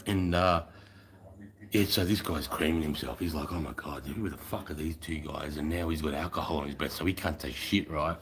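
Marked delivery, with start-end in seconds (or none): 3.5-5.6 mock baffled mutter. Lieutenant baffled, retold.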